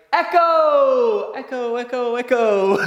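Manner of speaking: testing the echo, slow; parking garage. Shown as a demonstration. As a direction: call out to hear the echo.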